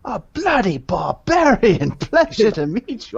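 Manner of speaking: thrilled posh exclamation with a laugh; delighted shout. Acted. Damien meeting the barbarian, loud and high.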